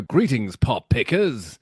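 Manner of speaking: slow cheesy DJ greeting; old radio announcer voice; Alan Freeman. Retold or imitated. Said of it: "can you give an example?".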